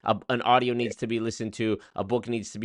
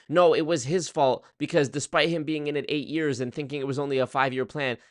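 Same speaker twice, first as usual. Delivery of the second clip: seething; 5 semitones higher than usual. Acted. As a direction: imitate an outraged defender laying blame. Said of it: "seething, going".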